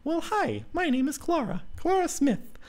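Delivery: bright high character voice for the heroine; Clara's voice. Acted. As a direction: lift into a high young woman's voice. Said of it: "me for my voice".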